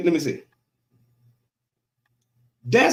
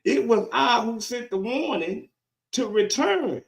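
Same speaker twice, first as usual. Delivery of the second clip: preaching God's rebuke; 5 semitones higher than usual. Acted. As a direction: punch out each phrase, pausing between.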